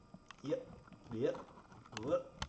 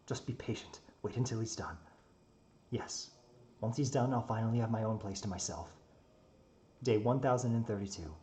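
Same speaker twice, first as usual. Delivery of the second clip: in-character story narration. A narrator's reading.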